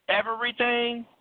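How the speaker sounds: incredulous question. Pretend. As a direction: ask it as if you can't believe it. Incredulous question then flat answer.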